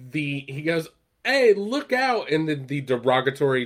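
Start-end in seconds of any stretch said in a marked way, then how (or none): 1.2-2.3 high, slow mock warning yell; retold yell. Frank warning Mac about the falling piano, high drawn-out yell. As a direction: call out a warning across the street, drawn out. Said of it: "he yells out to Mac".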